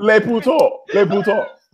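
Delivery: put-on high-pitched, silly French accent; mock French accent. Podcaster clowning for co-host, mock French accent. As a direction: ham up a bad French accent. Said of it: "I can't even do a French accent".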